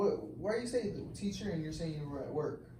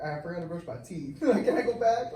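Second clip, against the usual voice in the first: laughing excuse; 3 dB louder than usual. Pretend.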